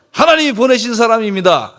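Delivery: leading the congregation in a bold declaration; confident proclamation. Shown as a demonstration. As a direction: proclaim it with conviction, full voice. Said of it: "아, 이제 좀 달라지네".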